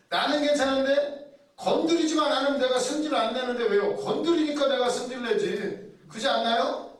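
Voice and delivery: self-righteous grumble. Retold or imitated. Mimics the self-righteous human.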